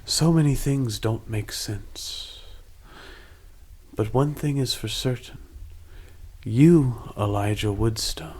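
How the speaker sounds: slow, solemn koala man; slow pronouncement with the accent dropped; koala figure without Australian accent. Acted. Koala man pronounces on Elijah, slow and unaccented. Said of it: "You lost your Australian accent".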